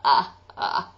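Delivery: short closed glottal grunts; clipped glottal uh sounds; glottal onsets. Shown as a demonstration. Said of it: "So what we need is".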